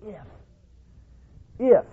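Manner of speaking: "If." set apart with a pause and weight; stress on if. Shown as a demonstration. Preacher pausing to weigh the word "If.". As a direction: linger on the word "If.". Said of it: "Very, very important word".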